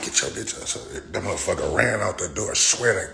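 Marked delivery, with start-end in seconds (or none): 0.0-1.0 fast hushed whisper of an order; whispered command to a scared dog. Retold or imitated. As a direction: hiss it quickly under your breath. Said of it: "I was like".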